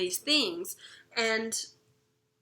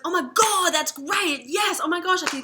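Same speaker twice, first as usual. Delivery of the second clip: higher and louder with delight; light up at the idea; thrilled; 7 semitones higher, 6 dB louder than usual. Acted. Mel reacting to her sister's suggestion, delighted.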